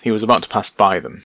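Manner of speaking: he was about to pass by them, quick and casual; effortless, breezy. Shown as a demonstration. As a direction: toss it off as if it costs nothing.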